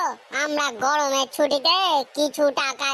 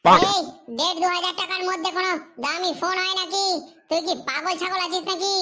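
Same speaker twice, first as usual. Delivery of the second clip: angry outburst; 3 semitones higher than usual. Acted. Shopkeeper scolds stingy customer, angry and raised. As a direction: lose patience with the cheap customer. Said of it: "control".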